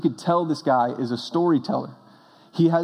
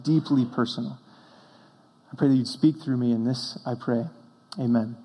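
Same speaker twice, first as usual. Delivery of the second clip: earnest spoken prayer in a steady, level voice. Real, not acted. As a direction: address God plainly and sincerely. Leads a prayer.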